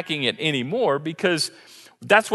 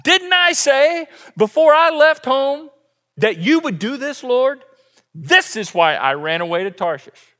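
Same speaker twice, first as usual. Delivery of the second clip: Jonah complaining; 5 semitones higher, 3 dB louder than usual. Retold or imitated. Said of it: "this is what Jonah complained".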